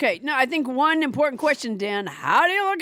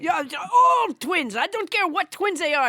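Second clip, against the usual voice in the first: French Trump voice. Acted. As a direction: keep the French Trump puppet going. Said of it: "French Trump would disown her".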